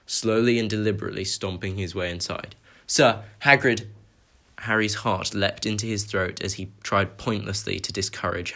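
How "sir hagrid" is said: loud, slow, panicked call; a boy crying out to halt the giant; alarmed cry. Acted. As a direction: call out to stop him. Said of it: "His cries fell on deaf ears".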